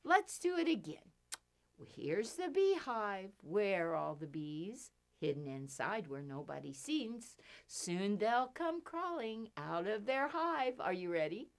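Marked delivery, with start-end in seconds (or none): 1.9-11.5 finger play rhyme. Pretend. Reciting children's finger rhyme.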